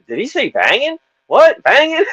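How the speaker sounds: high, laughing mock kid voice; puzzled kids. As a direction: imitate baffled teens mocking him. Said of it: "I remember the little kid".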